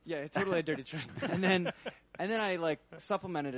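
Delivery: giggling as she admits the trick; laughing. Real, not acted. Researcher laughing along at the dirty trick joke, laughing.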